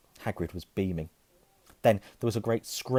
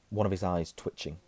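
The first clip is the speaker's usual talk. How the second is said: plain reading voice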